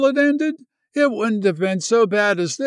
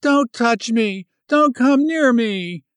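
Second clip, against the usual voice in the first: high, loud frantic cry; frantic young woman crying out, higher and louder; 7 semitones higher, 3 dB louder than usual. Acted. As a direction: push him away with her voice. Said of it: "she cried".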